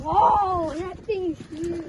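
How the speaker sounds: surprised. Real, not acted. Kid sees the fish.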